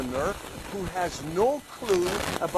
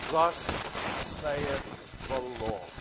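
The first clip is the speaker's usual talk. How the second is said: prophet; 3 semitones lower, much slower than usual. Acted. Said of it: "what Elijah tried to speak".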